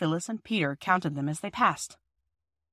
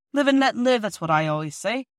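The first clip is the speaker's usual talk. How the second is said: put-on old workman voice; 3 semitones higher, 4 dB louder than usual.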